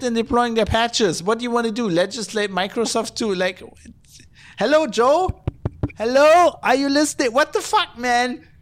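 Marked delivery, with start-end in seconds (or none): 4.6-8.5 high, loud call to an absent Joe; high, loud and fed up; exasperated call out. Real, not acted. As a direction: yell at someone who isn't listening.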